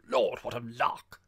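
loud, slow, drawn-out glee; gleeful exclamation. A narrator's reading. Girl recovering from howls of laughter, loud and gleeful. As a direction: relish the joke loudly.

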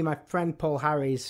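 ordinary talk, nothing marked

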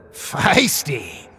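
high, loud, leering villain voice; creepy puppet villain. Acted. Killer puppet Ashy Slashy taunting Haley at the door, leering high voice.

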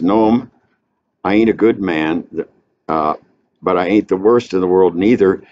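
hint of a Georgia drifter telling his story; Southern cracker talk. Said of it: "That's his daddy talk".

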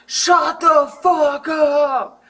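gruff angry shout, slowed; retold angry yell. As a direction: bark it like an angry neighbor. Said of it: "And I'm sleeping".

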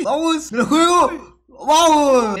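high-pitched rallying cry; excited gamer going for it; excited cheering. Real, not acted. Risking a jump in the game.

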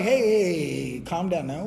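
slow, dropping acted soothing voice; drawn-out, gentle mock hushing; calming down. Brother calming an emotional reunion.

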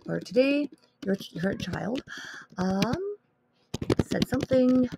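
reading out a snarky note to a parent, a bit put-on; annoyed message. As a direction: voice the irritated draft with mild sarcasm. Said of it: "my annoyed message".

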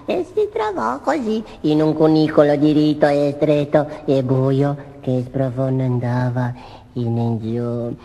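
squeaky little mouse puppet; cheeky cartoon mouse voice; italian puppet voice. Topo Gigio talking throughout.

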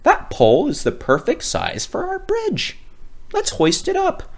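high, light cheerful worker; high, chirpy sky worker; heavenly worker. Acted. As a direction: call to the crew eagerly.

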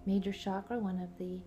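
calm guided meditation voice. Real, not acted. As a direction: guide the listener inward, unhurried.

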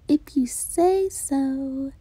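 drowsy, slow breathy murmur; half asleep, barely voicing it; sleepy whisper. Sleepy reply before nap.

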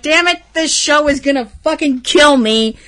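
half-laughing, half-crying at the show; teary mock despair. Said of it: "and I'm like".

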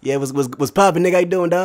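Azers. Retold or imitated. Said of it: "Hey, that's Azers".

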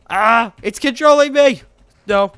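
high, slow, loud hammed-up panic; playful horror at being dragged off; mock panic. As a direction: wail as if possessed by the game. Character walked forcibly to block.

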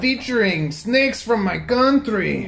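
put-on playful Spanish-accented host; mock Spanish-accented episode intro. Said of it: "allowed to do Spanish accents".

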